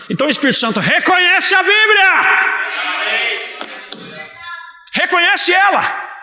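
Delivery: fervent preacher's shout, stretched and high; carried-away preaching. Real, not acted. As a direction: cry it out to the congregation, voice pitched right up. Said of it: "Me perdoe pela empolgação".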